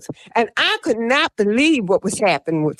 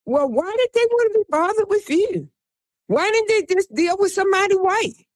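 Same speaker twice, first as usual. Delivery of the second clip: Howard Stern; 8 semitones higher than usual. Retold or imitated. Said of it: "and then Howard Stern said".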